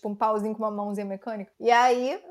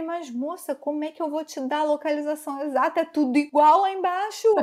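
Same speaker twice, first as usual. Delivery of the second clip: higher-pitched, pleading objection; flustered protest; 3 semitones higher than usual. Retold or imitated. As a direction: plead your case to her, exasperated. Flustered retold reply to shouting.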